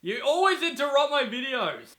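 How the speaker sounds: laugh, then a loud, high playful complaint; laughing yell at the sister for interrupting; mock-annoyed shout. Real, not acted. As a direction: tease the sister with a loud whine. Sister barges into the video.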